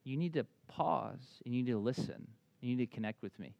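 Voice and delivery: a light hint of a calm God, slowed down; God speaking gently. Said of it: "what God was saying".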